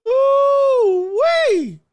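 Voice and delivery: very high, loud ooh-wee; loud excited squeal. Real, not acted. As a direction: squeal it out in delight. Reacting to comments.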